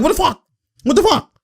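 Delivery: high squeaky imitation of disbelief; mock bewildered player. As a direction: mimic a baffled player in falsetto. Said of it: "he's like".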